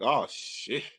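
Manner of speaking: rising, bewildered disbelief; baffled. Retold or imitated. Confused by mixed southern talk.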